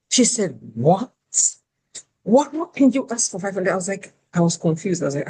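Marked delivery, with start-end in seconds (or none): 0.7-3.7 recruiter scolding the candidate, mock outrage; angry recruiter. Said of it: "The recruiter was angry".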